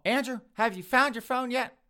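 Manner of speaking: high, loud call down the hall. Acted. Mother calling down the hall to her son, calling out. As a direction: holler for someone in another room.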